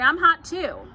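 put-on high, loud boyish complaint; eager cry. A narrator's reading. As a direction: pipe up loudly for attention. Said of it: "cried Avery".

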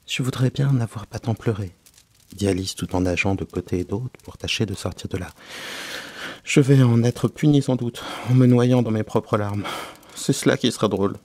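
lightly voiced, tearful-minded girl's complaint; lamenting Alice. Alice scolds herself while swimming in her tears, mildly lamenting. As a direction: raise the voice a little in self-reproach.

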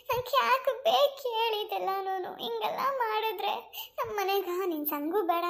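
a hint of a tearful, pleading woman; distressed poor woman. Bhagya telling Mallakka she cannot pay, lightly tearful and pleading. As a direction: plead your hardship, slowing as you despair. Bhagya lamenting lost money.

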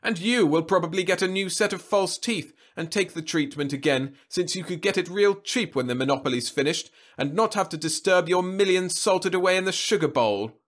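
put-on high, loud, sarcastic old man; mock her with heavy sarcasm. A narrator's reading. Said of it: "facetiousness and downright sarcasm".

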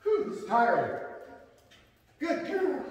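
high sing-song dog praise; squeaky praising a dog. Real, not acted. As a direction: coo at the puppy.

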